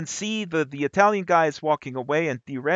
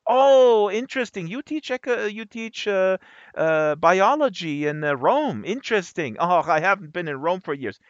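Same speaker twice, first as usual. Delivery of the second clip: chatty stranger; 4 semitones higher, 4 dB louder than usual. Retold or imitated. Voicing the Italian stranger.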